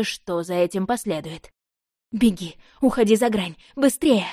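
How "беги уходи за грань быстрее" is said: terrified horror victim. Acted. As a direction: scream at her to run. Frantic warning to flee.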